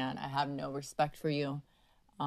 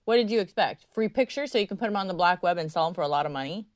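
raised, higher-pitched scolding; telling off; 4 semitones higher, 4 dB louder than usual. Real, not acted. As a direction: confront the scam caller head-on. Tells off a suspected scam caller.

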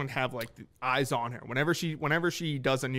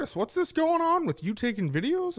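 higher-pitched imitation of reluctant radio hosts; put-on, swooping higher voice for a grudging question; mock reluctant questioning; 10 semitones higher, 4 dB louder than usual. Hosts grudgingly asking a co-worker about the videos, mock reluctant.

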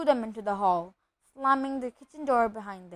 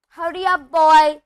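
loud, higher impatient shout; bellowed order, pitched up; Uncle Vernon shouting; 5 semitones higher, 16 dB louder than usual. A narrator's reading. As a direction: call out sharply from another room. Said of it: "shouted Uncle Vernon from the kitchen".

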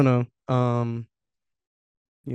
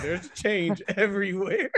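laughing drawl; 7 semitones higher, slower than usual. Pretend. Teasing about coins in pockets.

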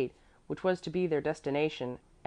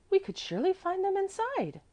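put-on very high, confident child voice; certain child. A narrator's reading. Mäzli insists to Apollonie, high and sure. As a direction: pipe it up with full certainty. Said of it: "said with great certainty".

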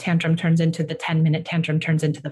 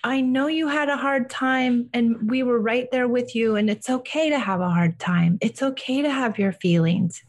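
higher, gentle, soothing parent voice; reassuring a child; 6 semitones higher than usual. Shown as a demonstration. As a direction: comfort him like a loving parent after a meltdown. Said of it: "And you just say to him".

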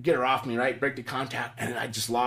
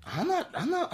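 laughing protest; 5 dB quieter than usual. Retold or imitated. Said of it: "I'm like".

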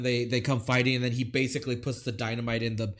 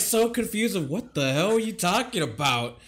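laughing; 6 semitones higher than usual. Real, not acted. Laughs while recounting confusion.

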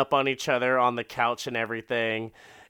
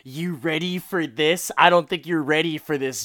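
sexy tease; 4 semitones higher, 5 dB louder than usual. Retold or imitated. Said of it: "she's like".

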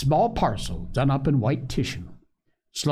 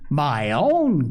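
proud cry; 4 semitones higher, 4 dB louder than usual. Acted. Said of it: "cried Phronsie".

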